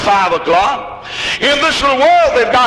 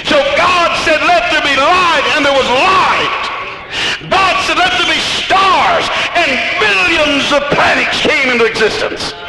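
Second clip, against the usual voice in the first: raised pitch, ringing out each phrase; full-force preaching; 4 semitones higher than usual. Acted. Preacher proclaiming creation to the congregation, full-force preaching. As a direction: proclaim it, drawing out the key words.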